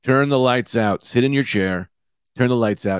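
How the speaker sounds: drawn out and lifted; eerie slow command. Shown as a demonstration. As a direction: say it slowly like a spooky instruction. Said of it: "what I like to do on these".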